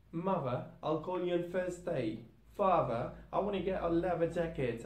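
Cockney British: V or F for TH, dropped H, glottal T; Cockney accent. Shown as a demonstration. Teacher practising example sentences with learners, in Cockney accent. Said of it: "Okay, let's practice".

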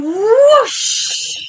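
long, rising-and-falling whoosh; storytelling sound effect; whooshing broom. Acted. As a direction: draw the whoosh out like a rush of air. Imitates broom taking off in story.

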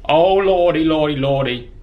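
loud fretful lordy; panicked. Real, not acted. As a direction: fret as the noise gives you away. Made noise, panics.

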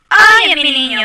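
high, loud burst of alarm; sudden fond alarm; excited cry. Real, not acted. Crying baby found in game.

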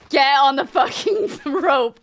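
slow laughing yell, daring him; taunting shout. Real, not acted. Player yelling at an enemy to take the rope. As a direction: shout the dare and crack up mid-line.

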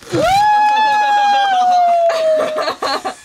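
real long high-pitched scream; sustained piercing shriek breaking up. Real, not acted. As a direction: scream out in shock, very high and loud. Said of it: "that was Phil Taggart screaming".

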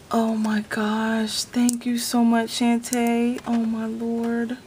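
slow down, nearly in tears with gratitude; real tearful disbelief; about to cry. Real, not acted. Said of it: "about to cry".

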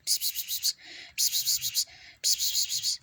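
whispered "pıs pıs" to lure a cat; quiet voiceless coaxing call. Pretend. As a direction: hiss softly like coaxing a stray. Calling a cat in the game.

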